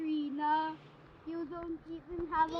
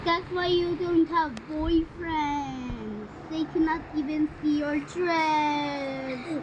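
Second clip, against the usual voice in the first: slow taunting; slower than usual. Acted.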